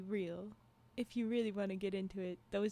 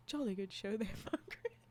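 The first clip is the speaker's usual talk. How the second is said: hammed-up British accent breaking into laughter; jokey British voice; mock British; 2 semitones lower than usual. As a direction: play a proper British gent, then crack up. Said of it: "imagine a British couple after sex".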